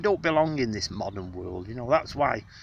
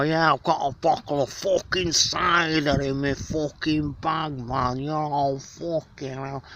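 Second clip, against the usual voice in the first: a hint of a rough swearing bloke; mock the common way of talking; lightly voiced coarse lad; crude lad; 3 semitones higher than usual. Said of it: "I don't say it like that".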